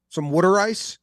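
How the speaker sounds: mock Philly accent, rising question. Shown as a demonstration. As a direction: say "water" as "wooder" in Philly style. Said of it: "accent just sounds like".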